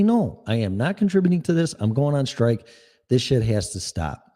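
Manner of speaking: a demo of saying no with conviction; firm refusal. Shown as a demonstration. Host shows listeners how to refuse, firmly. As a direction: say it like you mean it.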